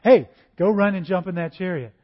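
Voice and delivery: a hint of God calling out, pleased; the Holy Spirit spotting a willing servant, mildly grand. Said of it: "Holy Spirit says".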